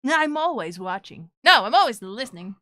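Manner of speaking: half-hearted villain voice; evil character attempt. Shown as a demonstration. Streamer getting into character for a scary line, mock evil. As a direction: try to sound like an evil character. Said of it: "Think of an evil character".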